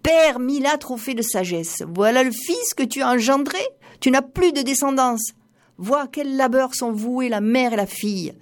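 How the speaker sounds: a lightly voiced wailing mother, pitched high; mother's anguished cry. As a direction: cry out to the dead father in despair. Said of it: "elle s'écria".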